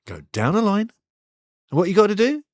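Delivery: a lightly voiced coach testing his winger. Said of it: "Keres giving the directions now".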